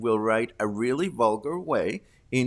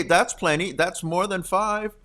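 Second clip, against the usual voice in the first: normal talking voice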